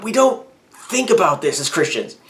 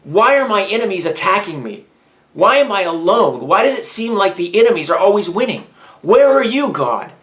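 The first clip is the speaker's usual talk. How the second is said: anguished psalm; 5 semitones higher than usual. Retold or imitated. King David writing psalms to God, anguished cry. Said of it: "would write towards God".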